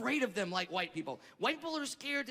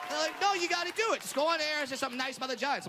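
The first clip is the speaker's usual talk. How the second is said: mock insistent yell; 5 semitones higher than usual. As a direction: bark the order, hammed up. Station bosses insist.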